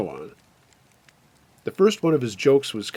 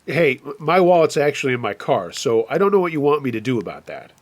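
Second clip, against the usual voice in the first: raised voice with a slight stumble; calling out; 2 semitones higher, 4 dB louder than usual. Acted. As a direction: call out an excuse to someone outside. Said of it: "I called out".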